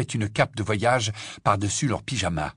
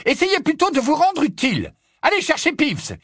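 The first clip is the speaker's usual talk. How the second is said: high, exasperated shouted order; vociferating; 4 dB louder than usual. A narrator's reading. Professor ordering the caretaker to fetch Peeves, vociferating. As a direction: send him off with an angry yell. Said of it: "vociféra McGonagall".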